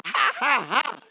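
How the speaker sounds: spoken-out, emphatic ha-has; preacher's prompting laugh; deliberate laughter. Shown as a demonstration. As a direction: laugh it out on purpose, beat by beat. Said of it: "Laugh, Monica".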